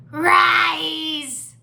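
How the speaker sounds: high, loud, wailing command; echoing skull. A narrator's reading. Skull repeats its master's summons, eerie cry. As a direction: wail it out like an eerie echo. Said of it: "the skull echoed".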